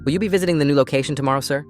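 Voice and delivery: quick, respectful question to the boss; polite waiter question. Acted. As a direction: ask it brightly, deferential. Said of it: "he asked".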